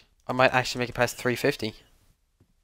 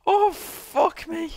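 shrieking jackpot winner; 8 semitones higher, much slower than usual. Real, not acted. Shrieks after near miss.

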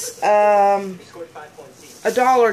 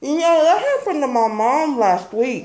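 laughing; 5 semitones higher than usual. Real, not acted. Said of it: "I can't understand you".

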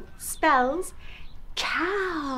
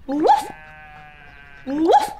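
short, loud, higher woofs rising sharply; dog bark; 4 semitones higher, 7 dB louder than usual. Pretend. Host gives children a clue, playful barking. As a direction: woof like a dog, pitched up. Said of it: "I'm barking".

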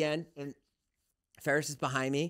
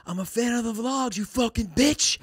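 high, imitated hostile fan; mock-menacing fan voice; nice but aggressive; 8 semitones higher, 4 dB louder than usual. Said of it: "he's nice, but also aggressive".

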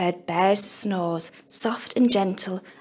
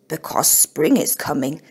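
lower, gentle smiling bear voice; 6 semitones lower than usual. Acted. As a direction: reassure the little bird with a smile. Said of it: "smiled Bear".

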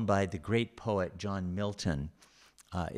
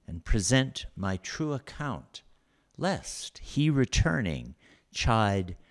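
measured, slow sonnet recital; poem reading; 3 dB louder than usual. Acted. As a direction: read it like a lecturer savouring verse. Reads Milton sonnet aloud.

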